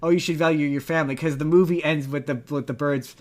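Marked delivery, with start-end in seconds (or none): 0.0-1.2 mocking the moral. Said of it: "this lesson that they want you to take away".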